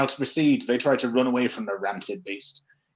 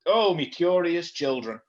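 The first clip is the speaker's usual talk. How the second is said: Luigi voice; 3 semitones higher than usual. Acted. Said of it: "Why is he northern?".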